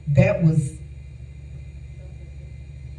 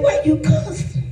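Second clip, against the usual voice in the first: lightly voiced Lord; 8 semitones higher than usual. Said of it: "The Lord said".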